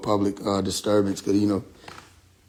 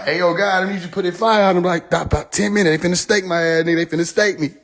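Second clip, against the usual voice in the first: mock desperate prayer; 5 semitones higher than usual.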